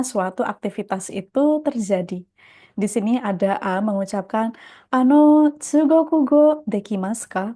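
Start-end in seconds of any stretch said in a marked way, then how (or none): 4.9-7.5 calling out. Acted. Teacher voicing dialogue speaker A.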